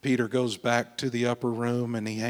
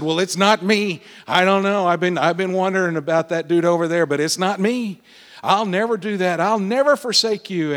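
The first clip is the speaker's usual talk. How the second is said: Peter, louder and higher, insisting it's not him; eager protest; 4 semitones higher, 4 dB louder than usual. Acted. Peter to Jesus at supper, eager loud denial. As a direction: protest loyalty too eagerly, climbing in pitch.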